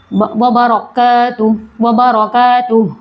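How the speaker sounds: बरकातुह very slow, ending on an audible resting h; breathy final h. Shown as a demonstration. Teacher demonstrating the silent h, slow. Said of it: "ह साकिन हो जाएगा".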